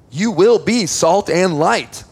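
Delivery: slow, firm, will hit hard; slow emphatic certainty on will; stress on will. Shown as a demonstration. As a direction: declare it as fact, pressing will. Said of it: "It's a statement of fact".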